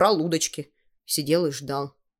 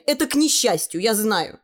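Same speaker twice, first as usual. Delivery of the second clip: put-on girl's voice; 5 semitones higher than usual. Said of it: "ответила Таня".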